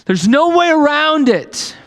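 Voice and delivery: Jesus telling the disciples straight; Jesus speaking plainly. Retold or imitated. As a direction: spell out hard truth to friends. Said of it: "He's like".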